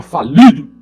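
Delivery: like a cannon shot. Shown as a demonstration. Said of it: "Fazia assim, ó".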